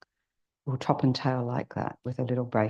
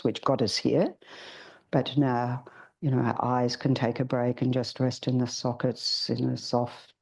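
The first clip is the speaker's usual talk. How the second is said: guided meditation. Acted. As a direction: ease the group gently into stillness.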